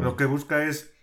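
chewing an apple mid-sentence; mouth full. Real, not acted. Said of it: "estoy comiendo una manzana".

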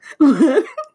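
a loud, high laugh bursting out; a real loud laugh. Real, not acted. Cracking up at the clip.

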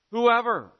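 WHOEVER called out high and loud, falling at the end; emphatic whoever. Acted. Preacher calling whoever to all hearers, emphatic and loud. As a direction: throw Whoever out to the whole congregation. Preacher stressing the gospel's reach.

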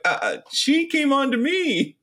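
lightly voiced guilty Chucky; mock guilty Chucky. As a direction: stammer it like a caught cheater. Chucky caught with captive.

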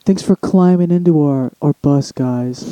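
slow, lightly put-on hipster welcome; a hint of smooth hipster patter; mock hipster host. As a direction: play a hipster podcast host, drawing it out. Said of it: "like, a hipster thing to say".

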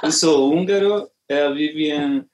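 Portuguese with a Hungarian accent; non-native Portuguese, Hungarian accent. Real, not acted. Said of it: "Desculpa, meu português não é tão legal".

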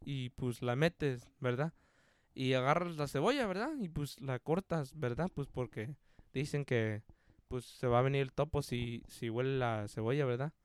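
quiet, low Spanish with a questioning verdad after each step; Don Verna. Retold or imitated. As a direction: imitate a coworker's rambling step-by-step instructions. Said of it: "he's like".

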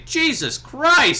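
loud, slow stunned exclamation; ring announcer shout. Retold or imitated. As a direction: shout it out in disbelief. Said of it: "they would just say".

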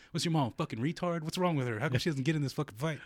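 high-pitched mocking questions; retold taunt. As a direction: re-enact needling someone with incredulous questions. Re-enacts taunting her about mother.

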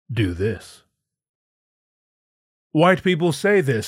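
hammed-up smug lecture on race; mock Paul Mooney. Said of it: "It's all very typical".

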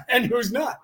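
chuckling through the words; amused little laugh. Real, not acted. Laughs at rivals.

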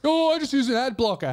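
high, mocking imitation of a smug user; mocking whine. Mocking people who use ad blockers, high and smug. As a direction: sneer it up high like a know-it-all.

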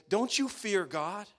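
a touch of a stern reproach; lightly voiced rebuke; mild rebuke. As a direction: criminal rebuking the other, mildly stern. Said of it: "rebuked the first".

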